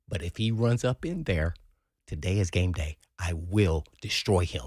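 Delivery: imitating an ice-calm player's warning; calm menace. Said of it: "Real calm".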